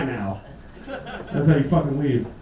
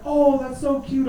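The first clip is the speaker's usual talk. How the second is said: mock gushing crowd; 7 semitones higher, slower than usual. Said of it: "everybody's like".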